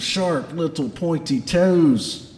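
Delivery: dramatic Scottish dwarf warning; Garm. Acted. Dwarf boss describing goose claws to his lads, Scottish accent. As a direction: draw out the horror in a Scottish accent. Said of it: "has a Scottish accent".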